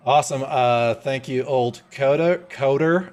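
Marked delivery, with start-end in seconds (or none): 1.4-3.1 careful tongue-twister name; saying a tricky name with care; slow, careful name. Real, not acted. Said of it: "I had to say that name really slow".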